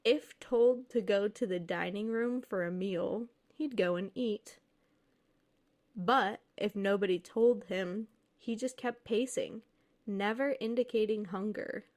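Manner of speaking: measured read-aloud storytelling voice; story narration. A narrator's reading. Reads a posted ghost story aloud.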